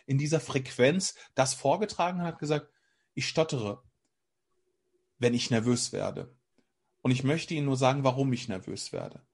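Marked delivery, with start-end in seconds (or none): 3.1-9.2 calm, composed confession. Retold or imitated. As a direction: retell a prepared speech calmly, letting each phrase settle. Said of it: "oder in der Ruhe".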